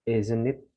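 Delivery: "Isn't it?" with the s said as z, izn't, rising at the end; isn't with a z sound. Shown as a demonstration. Teacher showing that the s in "isn't" sounds like z. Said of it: "S itu".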